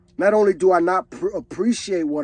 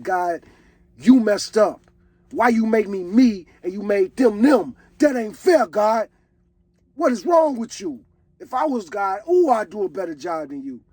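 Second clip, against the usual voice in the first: mock complaint to God; 3 semitones higher than usual. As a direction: play a jealous man scolding God for being unfair. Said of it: "you're saying".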